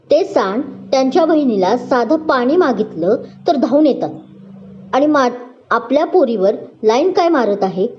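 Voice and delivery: mildly fed-up brother ranting; a touch of annoyance, pushing on; irritated. Acted. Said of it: "तो वैतागत बोलला". (वैतागून बोलणे)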